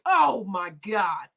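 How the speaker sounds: slow, drawn-out shock; slow shocked oh my God; stunned. Retold or imitated. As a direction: drag out the dismay. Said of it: "I was like".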